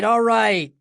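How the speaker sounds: high, loud repeated shout; shouting again. A narrator's reading. Boss repeating his shout at the room, high and loud. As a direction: keep yelling to stop the film. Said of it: "Edelman shouted".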